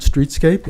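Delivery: "streetscape" set apart with a rising lift; emphasized word. Shown as a demonstration. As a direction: lean on "streetscape" and let it rise at the end. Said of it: "I really want to emphasize that word".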